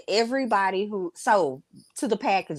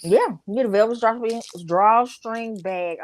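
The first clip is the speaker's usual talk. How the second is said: sore mouth from new braces; words slurred by tight braces; sore after braces tightening; 4 semitones higher than usual. Real, not acted. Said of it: "I just got my braces tightened".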